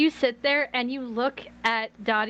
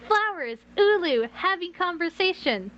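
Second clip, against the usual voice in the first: dreamy Mabry; 7 semitones higher than usual. Acted. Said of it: "'cause Mabry is like".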